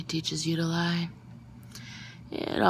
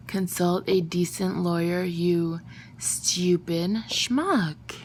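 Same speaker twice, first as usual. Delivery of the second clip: willing him to understand; much slower than usual. Acted. Silently willing the message.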